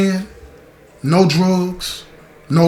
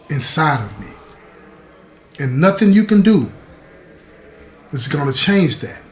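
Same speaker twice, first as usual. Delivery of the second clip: lightly acted reassuring mother, unhurried with long pauses; soothing mother voice. Mother assures daughter of her love, gently soothing. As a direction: soothe and teach in measured phrases. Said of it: "when she's trying to soothe you".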